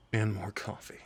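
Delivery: soft whispered tease. Acted. To his date while saying goodbye, whispered teasing. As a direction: breathe it out as a little secret joke.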